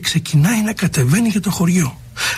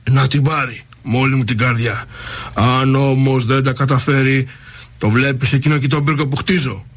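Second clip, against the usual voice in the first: kingly voice; 4 semitones lower than usual. Acted. King replies to old woman.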